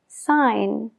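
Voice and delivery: "Sign" said sain, no G; silent g. Shown as a demonstration. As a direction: drop the G in "Sign". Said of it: "pero no la pronunciamos". ("Sign" sin la G, sain)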